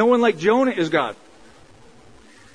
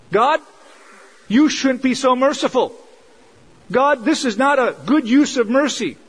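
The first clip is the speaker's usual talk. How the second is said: lecturing God; 5 semitones higher than usual. Retold or imitated. Jonah lecturing God about mercy, mock scolding. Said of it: "He's preaching to God about his mercy".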